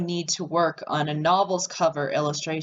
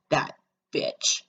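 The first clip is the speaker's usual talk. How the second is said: muttered curse; 3 semitones lower than usual. Real, not acted. Player curses the cheating ex-husband.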